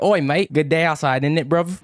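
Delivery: light mock British accent; a playful stab at a London accent. To his stream, a mild mock British accent. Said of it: "Always wanted to have one of those accents".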